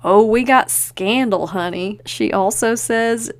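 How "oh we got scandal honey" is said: juicy, gossiping scandal-lover; gossipy. Retold or imitated. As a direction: lean in and dish the scandal. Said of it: "she's super gossipy".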